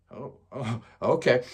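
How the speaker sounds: tiny, low, very soft reply; hushed mock-wounded mumble; meek, taken aback. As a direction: shrink back as a rebuffed fan, barely audible. Rebuffed fan retells his stunned reply.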